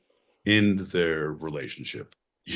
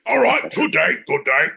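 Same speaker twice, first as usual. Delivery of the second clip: hawker's farewell; 10 semitones higher, 6 dB louder than usual. Acted. Crier sends off the buyer.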